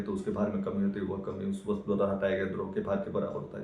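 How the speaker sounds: monotone drone of a crammed science rule; rote memorising. Acted. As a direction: rattle it off by heart without a breath. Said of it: "भाई साहब कई दिनों से इसे रट रहे थे।".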